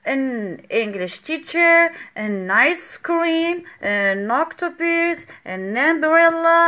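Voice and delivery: each "an" linked slowly to its vowel; model examples, very slow. Shown as a demonstration. Teacher reading vowel examples very slowly to students. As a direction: spell out every example word by word for beginners. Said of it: "model examples for class".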